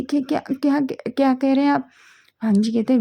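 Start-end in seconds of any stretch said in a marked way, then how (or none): 0.0-1.9 higher, stammering embarrassment; flustered stammer. Acted. Wing to Wang, blushing and stammering. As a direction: stumble over it, blushing. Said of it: "उसका चेहरा एकदम red हो जाता है".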